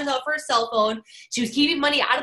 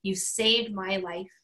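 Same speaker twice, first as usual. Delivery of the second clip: slow, hushed and sincere; heartfelt; slower than usual. Retold or imitated. Grateful Stuart thanking Rachel, sincere and slow. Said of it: "He goes".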